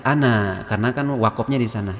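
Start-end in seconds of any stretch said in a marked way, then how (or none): 0.1-0.6 "ana" with the final "a" held before stopping; long ANA. Shown as a demonstration. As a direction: lengthen the end of "ana": a-naa. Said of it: "ananya dibaca panjang lagi".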